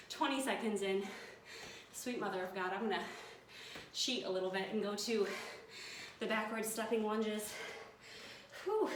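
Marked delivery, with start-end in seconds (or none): 1.9-8.9 out of breath. Real, not acted. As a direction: talk while gasping for air. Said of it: "super out of breath".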